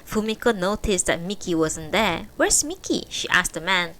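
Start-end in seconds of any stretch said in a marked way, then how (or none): 2.4-3.1 urgent. A narrator's reading. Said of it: "She had that sense of urgency".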